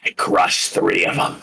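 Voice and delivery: hushed, voiceless brag; chef's whispered boast. Acted. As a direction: whisper it so nobody hears. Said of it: "he's like".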